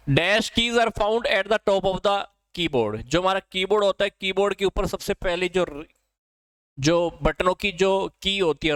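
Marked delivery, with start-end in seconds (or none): 0.1-3.0 slow dictation. Shown as a demonstration. Reading a quiz question aloud.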